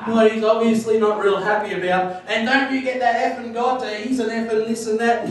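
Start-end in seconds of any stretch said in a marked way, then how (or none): 2.3-5.3 raised-pitch mock outrage with a laugh in it; retold ranting. Irate man refusing the preacher's prayer, mock ranting. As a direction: rant it lightly, imitating an irate man. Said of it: "he just went berserk".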